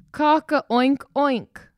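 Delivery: a rooster call turned piggy; silly crow. Acted. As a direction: stretch the crow out grandly, all wrong. Cockerel tries crowing again.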